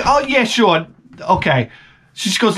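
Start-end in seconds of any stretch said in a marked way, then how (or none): 0.1-0.9 put-on high, sweet older woman; sweet old lady. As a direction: coo like a kind grandma. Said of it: "She's like".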